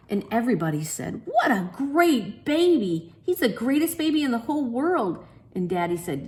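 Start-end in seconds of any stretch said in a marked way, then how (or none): 1.2-5.2 higher admiring coo; admiring crowd. A narrator's reading. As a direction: gush over the baby. Everybody admires the baby.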